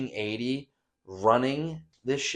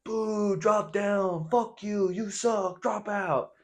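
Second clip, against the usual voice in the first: high, nasal-free heckling squeak; high mocking boo from the crowd; mock jeering voice; 10 semitones higher, much slower than usual. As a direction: jeer like a cartoon heckler. Mocking the party's jeers.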